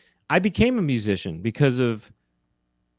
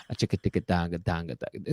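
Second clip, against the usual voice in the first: beatbox rhythm; 9 semitones lower, 9 dB quieter, faster than usual. Shown as a demonstration. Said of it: "What does that sound like?".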